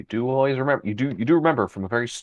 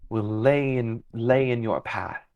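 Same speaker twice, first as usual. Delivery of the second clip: calm fey guide. Acted. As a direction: speak as an unhurried, cryptic fey creature. GM voices a fey figure.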